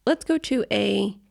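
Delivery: slow, measured news anchor read; newscaster voice. Shown as a demonstration. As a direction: lead into the next story like a news anchor. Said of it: "I sound like a newscaster now".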